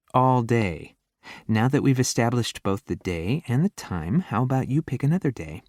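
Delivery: mock him with dry sarcasm; sarcastic. A narrator's reading. Sarcastic heroine retort.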